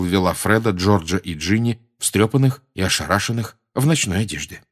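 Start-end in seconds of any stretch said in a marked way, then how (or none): none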